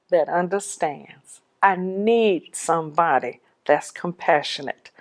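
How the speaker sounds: slow, pleading prayer to the Lord; slow earnest prayer. Retold or imitated. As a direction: pray it slowly, laying each need down. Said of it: "I'm like".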